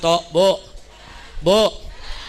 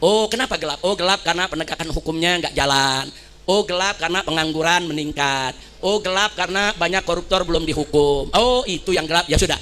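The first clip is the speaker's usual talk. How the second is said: calm official imitation; 5 semitones lower than usual. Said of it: "mestinya pejabat undang mahasiswa".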